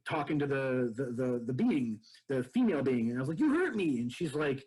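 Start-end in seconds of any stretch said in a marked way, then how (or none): 3.4-4.0 higher, louder hurt complaint; a mock-angry whine; retold angry accusation. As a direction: accuse her, upset. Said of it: "I was angry".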